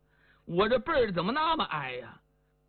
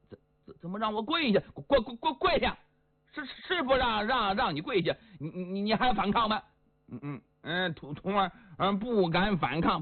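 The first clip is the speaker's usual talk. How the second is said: a hint of an impatient stuttering master; stammering Li Yuanba. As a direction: stutter the command, pushing it. Li Yuanba stammering his orders.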